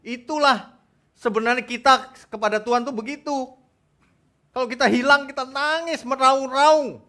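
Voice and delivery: high, loud sermon cry; urgent pulpit exclamation; impassioned preaching. Real, not acted. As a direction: drive the point home to the congregation. Preaches at full force.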